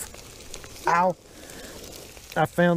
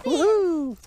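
high whooping cheer; excited whoop; 13 semitones higher than usual. Real, not acted. Grandpa cheering the caught catfish, high excited whoop. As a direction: whoop it up over the catch.

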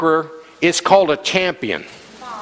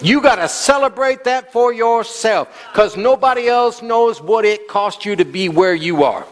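urgent, raised preaching voice; exuberant preaching; 3 semitones higher than usual. Real, not acted. Preacher urging church to celebrate themselves, exuberant preaching. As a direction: press it home to the congregation.

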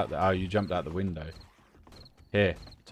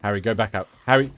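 calling out; 2 semitones higher, 9 dB louder, faster than usual. Real, not acted. Urging friend to retreat.

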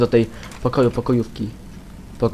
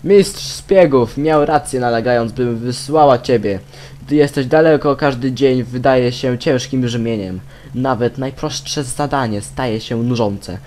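reading aloud; 3 dB louder, slower than usual. Acted. Reads game letter aloud.

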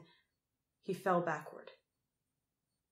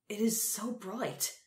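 Crow's voice; 3 semitones higher, slower than usual. A narrator's reading. Crow voiced, squinting in sun.

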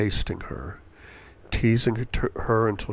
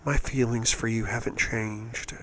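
softly reassuring, a woman's voice; calm her gently; 2 semitones higher, 6 dB quieter than usual. A narrator's reading. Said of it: "her voice low and reassuring".

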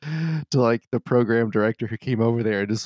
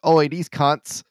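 mock British yob, higher and louder; imitated British accent; 6 semitones higher, 5 dB louder, much slower than usual. Podcaster imagining how the British court will talk, mock British accent. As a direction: put on a loud British accent. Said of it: "they talk like that".

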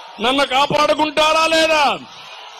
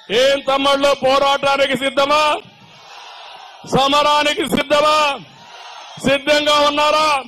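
rally cry; 3 semitones higher than usual. Real, not acted. Leader rousing party workers at a rally, shouting. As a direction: fire up the crowd with a shouted question.

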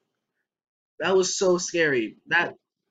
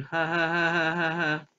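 staccato laugh; faster than usual. Pretend. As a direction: laugh in a steady string of ha's. Spelt-out laugh after reading.

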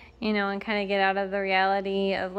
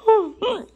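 hiccup; 10 semitones higher, 5 dB louder than usual. Real, not acted. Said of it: "excuse me, sorry".

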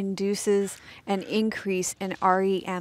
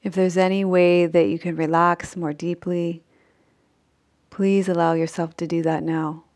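unhurried sleep-meditation voice with long pauses; measured Yoga Nidra guidance, phrase by phrase; guided meditation; 5 dB louder than usual. Acted. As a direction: guide them gently into rest, leaving long silences.

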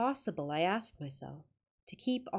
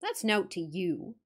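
curt Yorkshire reply. Acted. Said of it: "unceremonious reply".

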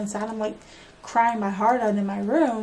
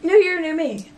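higher, louder slogan; proclaiming loudly; 7 semitones higher, 7 dB louder than usual. Real, not acted. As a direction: announce it like a motto.

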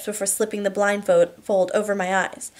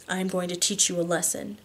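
murmured; 6 dB quieter than usual. A narrator's reading. Husband leans down to wife's ear, murmured. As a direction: murmur it as a quiet threat. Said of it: "he murmurs".

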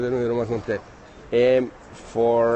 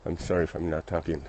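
out of breath; 7 semitones lower, 10 dB quieter than usual. Real, not acted. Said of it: "I'm panting here".

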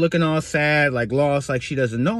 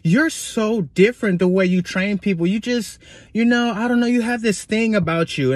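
imitating impressed coworker; 5 semitones higher than usual. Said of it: "She's like".

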